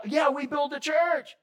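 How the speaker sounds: lightly voiced proud big-church guy; mock eager churchman. Preacher mocking his old church self, hammed-up.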